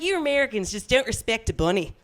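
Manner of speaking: lightly mimicked Australian accent. Angry Australians scolding her online, in an imitated Australian accent. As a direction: put on an attempted Australian accent. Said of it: "Is that a good Australian accent?".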